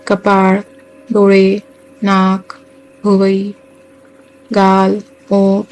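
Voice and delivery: unhurried meditation guide, long pauses between phrases; guided meditation. Acted. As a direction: guide listeners gently into relaxation, phrase by phrase.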